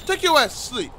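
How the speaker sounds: loud high snap of shut up; sudden furious yell; angry shout. Real, not acted. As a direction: yell it to silence them. Yelling at a teammate in game.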